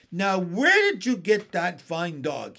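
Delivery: put-on older brother exclaiming in surprise; surprised cry. A narrator's reading. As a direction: call out in delight at the dog. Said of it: "he cried".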